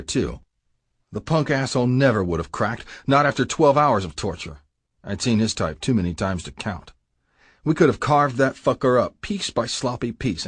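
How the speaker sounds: ordinary delivery, nothing marked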